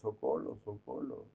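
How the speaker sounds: mock Chinese accent, r turned to l; caricatured Chinese accent on a cry for help. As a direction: imitate a drowning man with a caricatured Chinese accent. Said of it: "un chino se está ahogando y dice".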